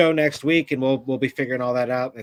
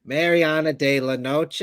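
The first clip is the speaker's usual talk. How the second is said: put-on Boston accent; 3 semitones higher than usual. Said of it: "say all this Spanish stuff in her Boston accent".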